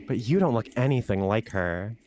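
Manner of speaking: ordinary talk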